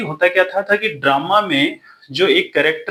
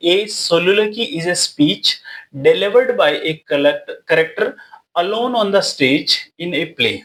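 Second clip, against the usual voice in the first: reads each English word out slowly for notes; slow dictation; much slower than usual. Shown as a demonstration. Teacher dictating notes to students, slow and deliberate. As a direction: spell out the definition word by word.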